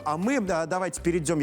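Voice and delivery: ordinary talk, nothing marked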